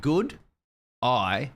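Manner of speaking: "Good eye" run together fast like "g'day"; fast Australian "Good eye"; Australian accent. Shown as a demonstration. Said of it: "think M eight together".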